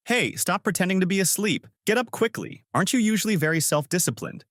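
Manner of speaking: calling to wake. A narrator's reading. Shaking her to wake up.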